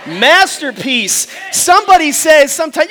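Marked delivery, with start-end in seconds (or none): 0.0-1.3 "masterpiece" very drawn out, firmer; rally the crowd on a long, full-voiced "masterpiece"; stretched, emphatic "masterpiece"; insistent recitation. Shown as a demonstration. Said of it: "Come on, say it with me".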